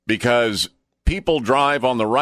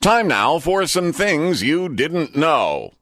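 slow, higher-pitched anchor delivery with long pauses; trivia segment presenter; 5 semitones higher than usual. Acted. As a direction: present the fact with measured suspense.

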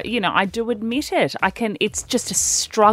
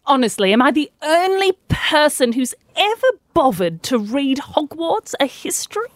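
put-on British accent; 5 semitones higher than usual. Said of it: "most recognisable British person".

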